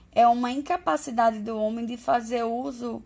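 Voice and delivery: drowsy, drifting half-asleep voice; fading off as sleep takes over; nodding off. Real, not acted. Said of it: "tô morrendo de sono".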